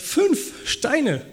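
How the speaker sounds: high incredulous echo of the question; God teasing David in mock surprise; mock disbelief. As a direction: repeat it as if it can't be serious. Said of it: "Und Gott sagt".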